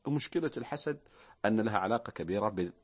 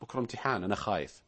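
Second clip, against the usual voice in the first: worried student; 4 semitones lower, 3 dB quieter than usual. Retold or imitated. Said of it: "لا تقول".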